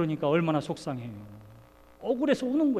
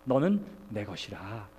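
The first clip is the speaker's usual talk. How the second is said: lower, slow and tender; tender emphasis; 9 semitones lower, 4 dB quieter, slower than usual. Shown as a demonstration. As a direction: say it softly like a promise. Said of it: "중요한 것은 이것입니다".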